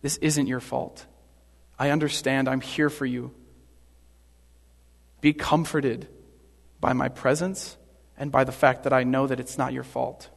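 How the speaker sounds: low-key, tender reassurance with pauses; gentle comforting. Acted. Jesus offering Pilate his presence, gently comforting.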